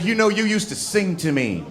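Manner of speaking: acted angry partner. Partner complains about lost romance, acted angry. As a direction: imitate an upset partner pleading and scolding. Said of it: "she got angry at me".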